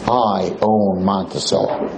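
lightly voiced low, slow boast; owner's threat repeated. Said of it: "That's what he tells us".

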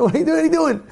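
high, baffled questions; can't believe it; hammed-up astonishment; mock disbelief. Mocking beach beer drinkers.

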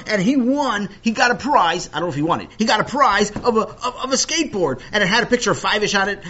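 high, loud, tumbling enthusiasm; thrilled storyteller getting carried away; excited gushing. A narrator's reading. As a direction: rattle on breathlessly about a wonderful prize. Narrator gushing about the prize.

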